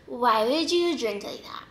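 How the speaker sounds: slow, drawn-out mock reproach; mock scolding. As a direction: imitate a mean boyfriend telling her off. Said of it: "not even being mean".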